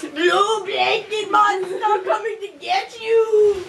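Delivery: slow, drawn-out monster call; playful monster threat. Pretend. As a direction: growl it out like a blanket monster. Playing blanket monster.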